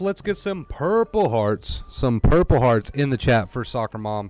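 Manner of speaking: high, bright burst of gratitude; excited thanks. Real, not acted. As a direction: cheer the tipper on, way up high. Thanking a tipper on stream.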